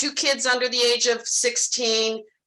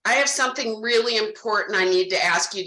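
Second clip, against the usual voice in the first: a touch more serious, barely lowered; serious demeanor. Shown as a demonstration. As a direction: drop the fun, turn grave and earnest. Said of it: "Do you see how my demeanor changes? I'm not fun Carrie anymore".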